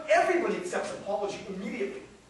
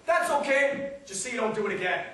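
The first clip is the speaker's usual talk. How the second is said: yelling back; 2 semitones higher, 6 dB louder than usual. Retold or imitated. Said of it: "yell right back".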